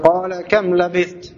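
qala kam labith read slowly, stopping on labith; pausal reading. Shown as a demonstration. Teacher demonstrating waqaf at labith. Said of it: "Kalau antum waqaf di labith".

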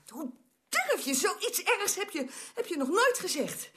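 slow, drawn-out reproach; offended indignation. Acted. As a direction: draw each word out, deeply affronted. Offended by the insult to mother.

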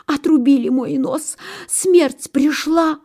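high, dramatic wail of doom; hammed-up panic, drawing out the end; gasping fox. A narrator's reading. Fox pricked on the nose, high panicked lament. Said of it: "ахнула лиса".

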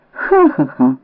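bitter laugh. Acted. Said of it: "зареготалась співголосом".

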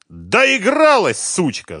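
high, loud roar; bellowing. A narrator's reading. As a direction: yell it in fury. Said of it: "заорал Харьков". (Харьков орёт на женщину в ярости)

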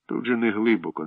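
reassuring. Acted. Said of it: "заспокоїв".

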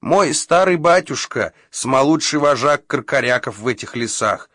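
high proud squeaky little bird; proud squeak. A narrator's reading. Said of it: "горделиво пропищала".

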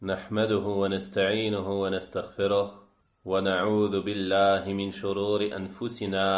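measured, even-toned liturgical recitation; Arabic opening invocation. Acted. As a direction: recite the opening praise in a steady, level cadence.

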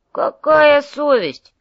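loud, high, drawn-out retort; indignant exclamation. Acted. Domingo answers his partner's jibe, loud and indignant. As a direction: throw it back loudly in disbelief.

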